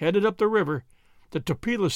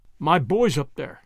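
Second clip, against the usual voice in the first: plain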